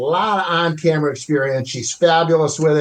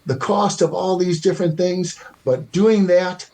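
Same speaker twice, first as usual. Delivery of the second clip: a light imitation of an ad voiceover, slowing and dropping to a breathy priceless; understated ad-read pastiche; credit card ad voice; 3 semitones higher than usual. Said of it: "like that old commercial for the credit cards used to say".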